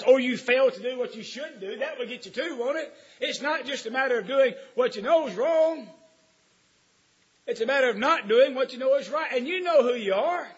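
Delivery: building preacher's cry; rising preaching. Acted. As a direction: press the point home to the congregation.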